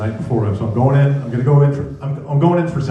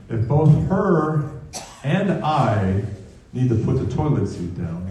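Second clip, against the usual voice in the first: measured objection. Retold or imitated. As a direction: push back in your own voice, piece by piece. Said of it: "I step back and go".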